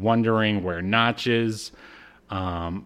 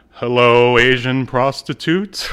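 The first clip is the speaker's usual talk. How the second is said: louder, silly mock greeting; ridiculous voice; 5 dB louder than usual. Host imitating a disguised character's ridiculous voice, lightly done. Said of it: "this ridiculous voice".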